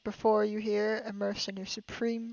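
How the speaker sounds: lightly hammed-up courtly praise; flattering aristocrat. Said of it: "That's how you talk to an aristocrat".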